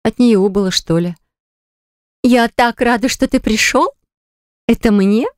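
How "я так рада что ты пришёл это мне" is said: high, breathless delight over a gift; gushing oohs. Acted. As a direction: coo and gush like she's thrilled. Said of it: "заохала Лола".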